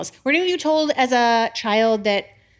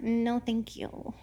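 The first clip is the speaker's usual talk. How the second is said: curt refusal; 10 dB quieter, much slower than usual. Retold or imitated. Jonah refuses God.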